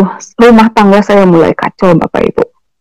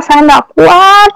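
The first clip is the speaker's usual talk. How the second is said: weary plea; 7 semitones higher, much slower than usual. Retold or imitated. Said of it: "saya hanya bisa menangis".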